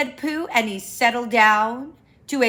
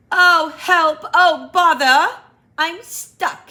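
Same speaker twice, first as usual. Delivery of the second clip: higher, louder mock panic; cry for help; 8 semitones higher, 8 dB louder than usual. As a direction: call out, stuck in the hole. Pooh stuck, crying out.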